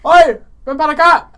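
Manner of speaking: put-on playful Spanish catcall to a girl; Hispanic guy impression. Joking about the one Hispanic guy, a Spanish catcall. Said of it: "one Hispanic guy that's like".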